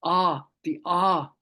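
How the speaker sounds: "ah" slow and drawn out; open ah sound. Shown as a demonstration. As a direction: stretch each "ah" wide open. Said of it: "is an ah".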